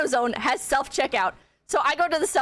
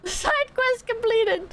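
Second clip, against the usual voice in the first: high, slow video game announcement; game announcer; 9 semitones higher, much slower than usual. Pretend. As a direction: announce it like a quest popup. Jokes errand was a game.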